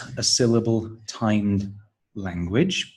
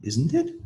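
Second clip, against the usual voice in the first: isn't it? with pitch rising sharply on it; rising tag question; 11 semitones higher than usual. Shown as a demonstration. Teacher modelling a tag question tune. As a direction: tag question swooping up at the end. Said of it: "That's the fall rise".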